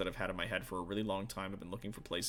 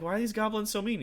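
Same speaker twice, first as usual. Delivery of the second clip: mock whine; 11 semitones higher, 4 dB louder than usual. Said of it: "I was like".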